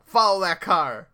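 high, loud, stretched-out command; gleeful mock yell. Joking about jumping into a taxi, mock yell. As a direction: yell it like a movie chase. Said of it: "go into a taxi and yell".

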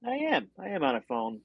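speaking through a phone speaker; thin voice no bass. Real, not acted. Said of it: "'Cause you sound like you're on a phone".

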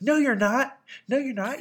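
put-on high, loud little-girl protest; little girl scolding her dad; imitating a little girl. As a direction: insist like a cross child. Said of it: "And she's like".

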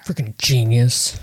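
mouth full. Real, not acted. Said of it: "angrily shoving chocolate in her mouth".

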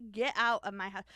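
loud mock order to leave; mock angry yell. Cook ordering the investigator out, mock angry yell. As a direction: yell it as an outraged cook, hammed up. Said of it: "that's not what she sounded like".

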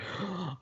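soft intake of breath; imitated wife's gasp. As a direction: mimic a gasp before bursting out. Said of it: "and she's like".

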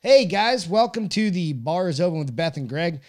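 upbeat show opener; host intro. Acted. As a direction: welcome the audience like a host.

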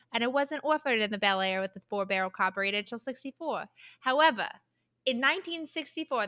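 lightly voiced New Jersey mechanic; New Jersey accent. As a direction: rattle off car talk in New Jersey accent. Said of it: "Do you wanna hear my, um, New Jersey accent?".

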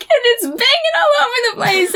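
high, fast panicked rush; retold panic. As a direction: blurt it out in a panic.

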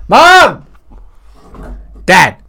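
high, loud yelling for mom; hammed-up wail of alarm; mock panicked kid. Acts kid alarming mom about dad.

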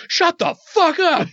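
high, drawn-out re-enacted shout; exasperated holler, stretching each word; angry yell. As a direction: yell it across a distance. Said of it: "I just yell".

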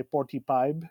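forty-five with a hard P sound: "porty-pive"; Filipino accent. Shown as a demonstration. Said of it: "with the P".

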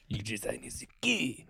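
conspiratorial whisper; whispered aside. Real, not acted. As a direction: whisper it behind your hand.

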